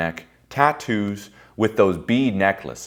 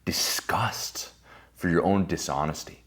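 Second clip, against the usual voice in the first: whispered disgust; 4 dB quieter, slower than usual. Shown as a demonstration. Speaker names the feeling to the crowd in a whisper. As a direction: whisper the word with contempt. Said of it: "Disgust for this fucking mask".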